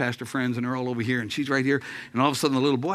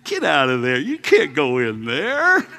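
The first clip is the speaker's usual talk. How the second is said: scolding mother; 7 dB louder than usual. Retold or imitated. Mother scolding her son.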